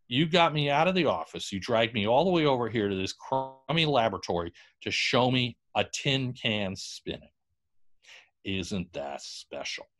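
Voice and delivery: drip dry sarcasm, trailing off; sarcastic backer. Retold or imitated. Backer mocks Tesla's demonstration.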